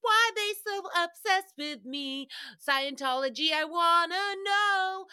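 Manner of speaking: high, put-on whiny wondering; hammed-up curious star; high mock puzzled celebrity; mock Tom Cruise. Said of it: "he's just like".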